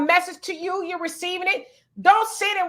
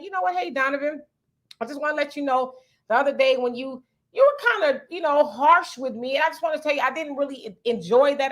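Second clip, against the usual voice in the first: lower, even, reassuring tone; calm and respectful; 3 semitones lower, faster than usual. Shown as a demonstration. Demo of the right way to confront someone, calm and respectful. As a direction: address Donovan gently and sincerely. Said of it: "it was how I said it".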